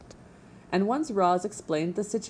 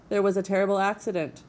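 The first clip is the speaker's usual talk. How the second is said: cheerful; 3 semitones higher, faster than usual. Acted. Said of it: "why does your voice sound so cheerful?".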